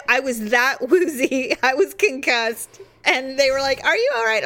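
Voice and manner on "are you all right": retold concern. Retold friends checking after the hit.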